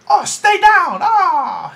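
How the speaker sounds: high, loud squeaky bully's yell; high kid voice. Retold or imitated. The big bully shouts at Dre in a squeaky high yell. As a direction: yell it like a tough little kid whose voice is still high. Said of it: "your voice is, is funny, 'cause it's, like, a little high kid".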